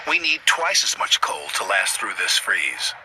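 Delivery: loud worried cry. A narrator's reading. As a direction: call it out loudly. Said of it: "he cried".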